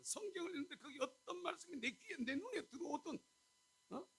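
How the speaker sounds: loud, high preaching with a laugh; full-force preaching. Acted.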